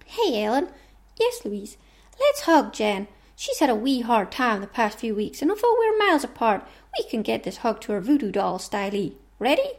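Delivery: put-on putting on an American accent; lightly voiced toy pals in American accents; chatty mock-American accent. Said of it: "that's my American accent".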